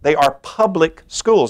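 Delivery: slow, with "public" weighted; slow down and land firmly on "public"; stress on public. Real, not acted. Speaker corrects a misnomer about charter schools, "public" stressed. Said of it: "I want to emphasize the word public".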